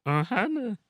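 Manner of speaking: high put-on cartoon voice; silly voice. Joking to a friend, then denying the voice. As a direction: say it like a cute alien. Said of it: "I don't talk like that".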